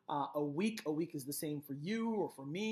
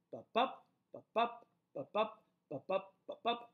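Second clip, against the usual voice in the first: ba-BUP, second syllable punched, first one light; five separate ba-bup pairs, each landing on bup; iambic beat; 4 semitones higher than usual. Shown as a demonstration. Teacher sounding out the stressed syllables, iambic beat. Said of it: "Every time you hear that stressed syllable".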